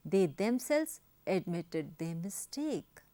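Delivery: very slow, one word at a time; slow dictation reading. Shown as a demonstration. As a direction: read the example out for copying. (बहुत धीमे लिखवाना)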